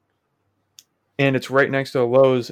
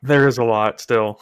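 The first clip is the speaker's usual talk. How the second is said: laughing; 4 dB louder than usual. Real, not acted. Laughing about rat mess.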